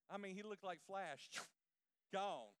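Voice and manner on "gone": ordinary talk, nothing marked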